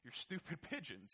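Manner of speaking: lightly voiced reluctant teen, grumbling. Steve agreeing to feed the pigeons, mild grumble. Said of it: "he grumbles".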